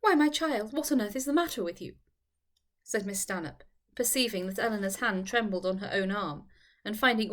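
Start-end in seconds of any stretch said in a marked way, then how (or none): 0.0-1.9 quicker, higher, anxious friend; concerned Charlotte. Acted. Charlotte quickly asking her trembling friend what happened. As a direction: rush to ask what's wrong.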